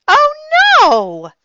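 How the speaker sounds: put-on alarmed little-girl cry of dismay; a loud upset wail; real upset. A narrator's reading. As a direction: gasp it out, upset. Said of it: "real upset".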